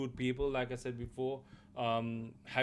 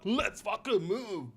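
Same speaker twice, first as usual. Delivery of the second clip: higher, slow mock Australian accent; mocking Aussie line; 7 semitones higher, 3 dB louder, slower than usual. Streamer contrasts curt Geralt with the Australian delivery, mocking in a mock Australian accent. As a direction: stretch it out like a mock Australian action hero. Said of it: "Not be like".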